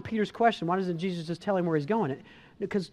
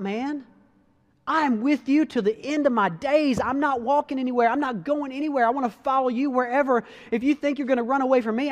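insistent, raised pitch, devoted; fervent Peter; 3 semitones higher than usual. Retold or imitated. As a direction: swear loyalty to the end. Pastor voices committed Peter.

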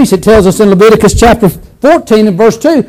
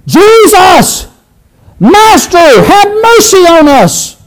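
higher, pleading call from a distance; crying out for mercy; 7 semitones higher, slower than usual. Acted. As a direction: call across the road, begging. Lepers cry out from afar.

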